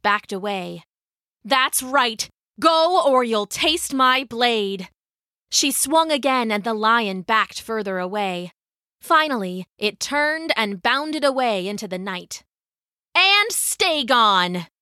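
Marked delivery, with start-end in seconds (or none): 1.4-4.9 raised, defiant warning; higher-pitched warrior's challenge; fierce threat. Acted. Warrior threatening a retreating lion. 13.1-14.7 slow, raised-pitch command; drawn-out, emphatic warning; defiant parting cry. Acted. Warrior shouting after fleeing lion.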